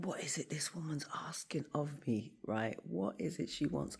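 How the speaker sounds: pitched well up, half-whispered and baffled; a mock-baffled squeak of frustration; exasperated inner voice. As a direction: ask yourself in high-pitched bewilderment. Inner frustrated questioning retold.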